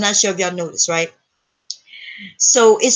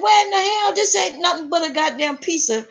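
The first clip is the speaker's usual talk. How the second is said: comic outrage, pitched up; retold pissed off; 6 semitones higher than usual. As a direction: replay indignant disbelief, breaking into a laugh. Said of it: "But I was pissed off".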